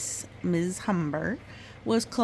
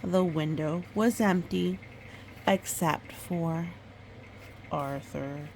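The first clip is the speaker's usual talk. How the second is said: gentle storybook read-aloud; reading to a child. Acted. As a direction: tell it like a bedtime story. Mother reads picture book aloud.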